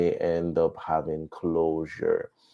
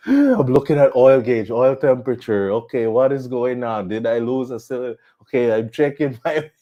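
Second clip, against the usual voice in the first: higher-pitched, re-enacted cockpit alarm; acted panic; 4 semitones higher, 4 dB louder than usual. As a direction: run through the checks in mock panic. Reliving in-flight panic after explosion.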